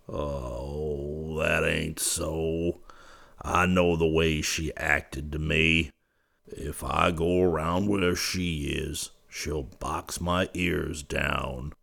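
soft, slow, woeful lament. Acted. Yuma lamenting the girl won't have him, soft and woeful. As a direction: sigh it out as if all hope is gone. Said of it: "in a voice filled with woe".

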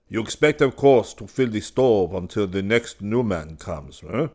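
a pompous studio head, putting on airs; majestic massiere. A narrator's reading. Head student greeting the newcomer with grand condescension. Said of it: "majestic creature who held the position".

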